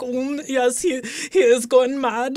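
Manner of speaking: put-on slow Austrian accent; deadpan Austrian accent. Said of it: "Gray is just standing here and says".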